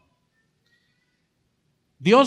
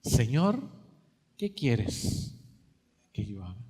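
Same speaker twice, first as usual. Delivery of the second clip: much softer, lower, fading almost to nothing; fearful surrender; 10 semitones lower, 9 dB quieter than usual. Acted. Saul surrenders to the Lord, barely audible and humbled. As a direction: give it up in a small, defeated voice. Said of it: "él temblando y temeroso le dijo".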